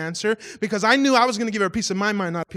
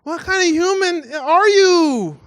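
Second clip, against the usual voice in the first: retold yelling; 6 semitones higher, slower than usual. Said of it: "screaming at my wife".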